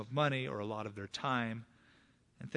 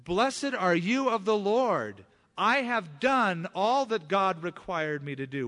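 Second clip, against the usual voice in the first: slow, higher, louder pious voice of Saul; Saul's false piety; 5 semitones higher, 7 dB louder, slower than usual. Retold or imitated. King lying to the prophet, slow and pious. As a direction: ham up a self-righteous king's claim of obedience. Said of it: "he said".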